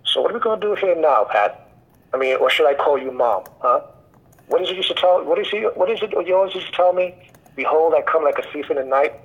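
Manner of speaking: retold taunt in a sarcastic tone. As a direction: needle them with a pointed, sarcastic question. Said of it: "with sarcastic tone".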